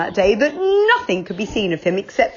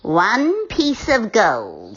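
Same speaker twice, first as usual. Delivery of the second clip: slow, otherworldly witch voice; a witch naming her price, drawn out; much slower than usual. Acted. Witch quoting the spell's price to Moonface, slow and eerie. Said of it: "said the witch".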